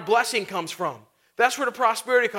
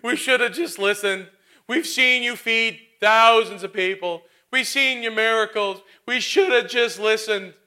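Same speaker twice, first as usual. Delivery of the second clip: louder, drawn-out mock apology; sheepish disciples; 4 dB louder, slower than usual. Disciples apologizing to the Lord, mock sheepish pleading. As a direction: grovel like embarrassed disciples. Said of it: "what their response was".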